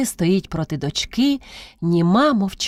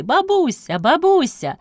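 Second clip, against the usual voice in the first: put-on children calling out; 9 semitones higher than usual. A narrator's reading. Children greet their grandmother, crying out. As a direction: call like excited little children. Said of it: "як закричали діти".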